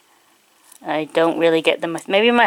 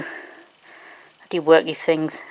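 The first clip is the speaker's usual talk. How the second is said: puzzled mutter; 4 semitones lower, 5 dB quieter, much slower than usual. Real, not acted. Puzzling over the spinner.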